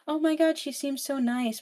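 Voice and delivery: high, airy delight; charmed gush. Retold or imitated. Evie charmed by Rena at first, high gush. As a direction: swoon a little over her.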